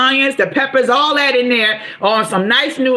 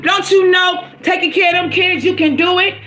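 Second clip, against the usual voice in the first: higher, pumped-up preaching; rousing encouragement; 5 semitones higher than usual. Real, not acted. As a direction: fire up a struggling parent. Rousing pep talk continues.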